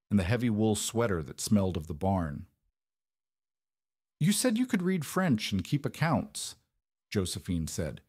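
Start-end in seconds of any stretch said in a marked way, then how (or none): 4.2-6.6 "You said you could read French" pitched high, stated; statement, not question. A narrator's reading. Mistress to Arthur, "read French and keep accounts" as a statement. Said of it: "It wasn't a question".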